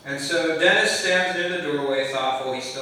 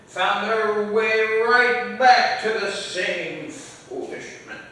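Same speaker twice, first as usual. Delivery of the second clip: put-on slow, higher old man voice; a lightly voiced old man, slow and weighty; 4 semitones higher than usual. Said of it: "I'll try a little better here".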